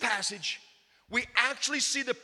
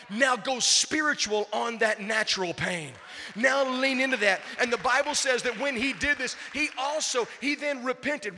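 louder building exhortation; rising preaching; 2 semitones higher, 3 dB louder than usual. Acted. Pastor urging congregation to pray, building preaching. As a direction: push them to lean in.

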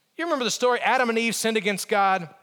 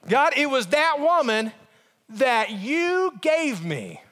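higher accusing start, slowing right down; blaming God; 3 semitones higher, slower than usual. Acted. Adam turning the blame on God, accusing. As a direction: drag out the accusation pointedly. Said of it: "he blamed God himself".

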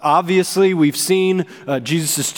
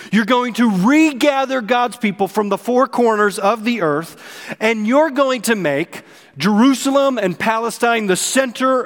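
rising proclamation; 4 semitones higher than usual. Retold or imitated. Peter hailing the long-awaited king, fervent. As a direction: swell with hope as the list grows. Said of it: "That's what Peter meant".

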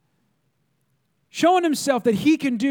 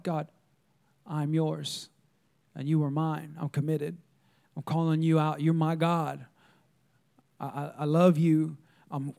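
soft, low, intimate prayer; hushed prayer; 6 semitones lower, 7 dB quieter than usual. Acted. Showing listeners how to share with God, hushed prayer. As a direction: speak low and softly, as if alone with God.

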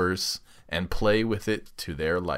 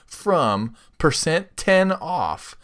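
sultry ad read; 4 dB louder than usual. Acted. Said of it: "Use that sultry voice of yours".

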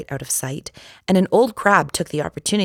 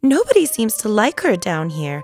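tearful; 6 semitones higher, 3 dB louder than usual. Acted. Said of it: "began to cry again".

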